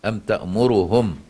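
تأمرهم with the damma on the ra said in full; تحقيق ضمة الراء في تأمرهم. Shown as a demonstration. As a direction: give the ra of تأمرهم its whole damma. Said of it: "بتحقيق ضمة الراء".

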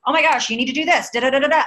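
high, fast, gushing rush of instructions; gushing overload. Retold or imitated. Upline overwhelming a new recruit with a high, fast gush. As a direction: pile tasks on a new recruit, breathless and eager. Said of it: "and say".

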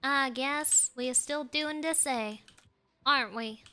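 playful Southern twang; Southern country talk, played up; Southern accent. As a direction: put on a folksy Southern accent. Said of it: "be a Southern".

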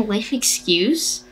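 scoffing laugh through the words. Acted. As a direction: laugh it off in disbelief. Mocking repeat of insult.

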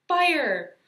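high, very loud command yell; shouted firing order. A narrator's reading. Soldier at the sand cannon, shouted firing order.

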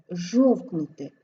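"жовкнути" slow, with a long initial zh. Shown as a demonstration. Teacher showing зж pronounced long, drawn-out zh. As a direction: hold the opening zh of "жовкнути". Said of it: "ми вимовляємо довго".

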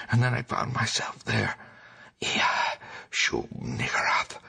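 hoarse, breathless whisper of a terrified madman; gasping, unvoiced horror, rushing then dragging; frantic raving whisper. A narrator's reading. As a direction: whisper it like a man who's seen the pit. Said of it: "pouring out a meaningless, half-incoherent torrent of words".

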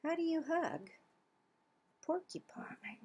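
hushed whispered question. Acted. Reading to kids, refrain whispered.

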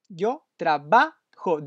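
Yo trabajo said slowly, each syllable clear, stress on trabajo; slow it down for the learner; slow careful demo. Shown as a demonstration. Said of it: "the stress is in the".

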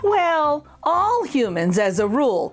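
lively read-aloud storytelling voice; story narration. A narrator's reading. Teacher reading a funny turkey book to children, lively storytelling. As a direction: read it like a bouncy rhyme for kids.

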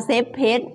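"safe place" with no F and no L; quick learner's-error "safe place", both consonants lost; F and L dropped. Shown as a demonstration. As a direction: say "safe place" wrongly, like "sep pet". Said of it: "ตกทั้ง F ตกทั้ง L เลยนะ".

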